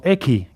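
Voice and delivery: eki with a puff of h after the k; aspirated K. Shown as a demonstration. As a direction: release the k in eki with a burst of breath. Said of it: "la K con la H".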